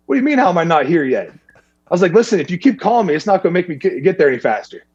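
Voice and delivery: exasperated reply. Retold or imitated. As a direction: snap back at the nagging caller. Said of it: "And I was like".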